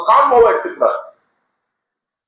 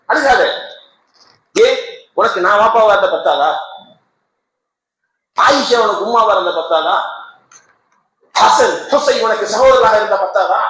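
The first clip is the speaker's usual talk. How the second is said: put-on consoling child. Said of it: "ரசூலுல்லாஹி ... பயன்படுத்திய வார்த்தைகள்".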